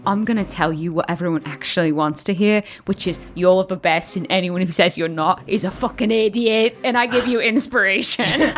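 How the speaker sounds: low-pitched, sincere reassurance; steady a friend in a low voice, building at the end; sincere pep talk. Acted. Friend gives Calder inspiration, low and sincere. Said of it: "I look over to Calder and I'm like".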